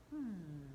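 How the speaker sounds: soft thoughtful hmm; pondering hum. Shown as a demonstration. Storyteller leads the kids in a soft pondering hum. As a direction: hum as if thinking hard. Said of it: "They're pondering".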